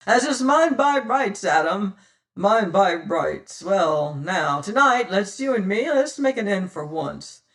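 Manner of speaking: cheery hail. Acted. Tressady hailing his old enemy Penfeather, loud and cheery. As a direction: call out across the water, long and cheerily. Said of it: "hailed long and cheerily".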